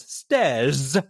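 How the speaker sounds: stairs with a hard American R on the end; imitating an actress slipping between accents; mock American stairs. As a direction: switch mid-word into an American R. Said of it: "and then she goes".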